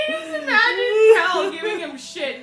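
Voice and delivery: laughing through the words; cracking up mid-sentence. Real, not acted. Laughing hard while talking.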